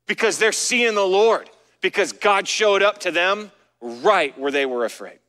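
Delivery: rising, emphatic sermon delivery; preaching. Acted. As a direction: preach it with building fervour. Preaching the grief of disciples.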